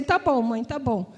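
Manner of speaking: a soft, submissive "okay"; backing down quietly from mom; resigned quiet. Retold or imitated. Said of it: "eu falei assim". (filha cedendo à mãe, em voz baixa e resignada)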